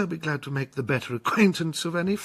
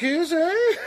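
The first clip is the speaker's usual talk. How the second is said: hearty laugh; 9 semitones higher than usual. Acted. Captain laughs, flattering Blewett.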